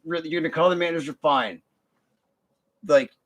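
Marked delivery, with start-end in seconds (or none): 0.1-1.6 fast, flat brush-off; dismissive, no cursing. Retold or imitated. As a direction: toss it off quickly and shrug. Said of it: "but I was like".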